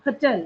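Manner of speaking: होटल with the ट pushed hard; stress on the T. Shown as a demonstration. Teacher repeating होटल for the class, hitting the ट hard. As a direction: say होटल as two beats, punching ट. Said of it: "ट पे हमें थोड़ा सा जोर लगाना पड़ेगा".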